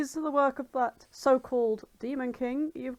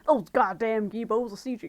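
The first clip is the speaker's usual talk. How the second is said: put-on Texan accent; 3 dB louder than usual. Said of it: "got Texan very quick there".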